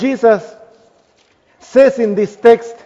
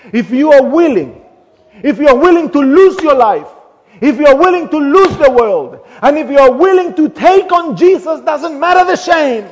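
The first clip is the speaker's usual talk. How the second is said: building appeal; 4 semitones higher than usual. Acted.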